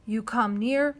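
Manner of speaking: loud, quick warning; tiny brave threatening the boy; swift threat. A narrator's reading. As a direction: snap the threat fast. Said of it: "said the Indian swiftly".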